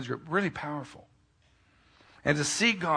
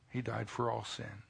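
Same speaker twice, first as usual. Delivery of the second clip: much softer, slow and intimate; hushed preaching; 2 semitones lower, 6 dB quieter, slower than usual. Acted. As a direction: let it sink in softly. Soft intimate preaching close.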